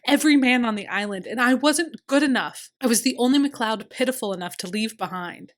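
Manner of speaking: loud, high, fast bitter lament; near-shouted self-pity; anguished outburst. A narrator's reading.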